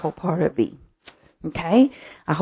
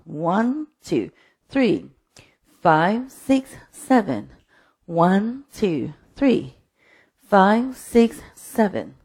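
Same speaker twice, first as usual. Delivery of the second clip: spaced-out counts, each landing on its beat; sing-song instructor's count; dance counting; 2 semitones higher, much slower than usual. Real, not acted. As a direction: count the rhythm aloud for dancers. Counts the dance beats aloud.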